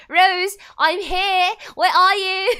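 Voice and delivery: slow, high, very loud mock call; over-the-top singsong shout for a missing friend; hammed-up calling out. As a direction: holler it drawn out, on the edge of laughing.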